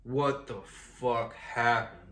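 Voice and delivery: slow, drawn-out disbelief; dazed bewilderment. Retold or imitated. Waking in underwear after the dream, bewildered. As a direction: stretch each word out, imitating stunned confusion.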